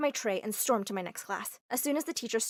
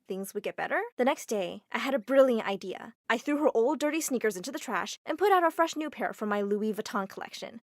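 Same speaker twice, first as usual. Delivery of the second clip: plain reading voice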